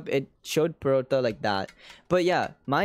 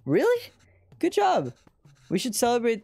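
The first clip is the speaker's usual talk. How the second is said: high, surprised congratulation; proud parent's gushing praise; delighted praise; 8 semitones higher than usual. Acted. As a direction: pitch it right up, thrilled for the child. Parent praises child in game.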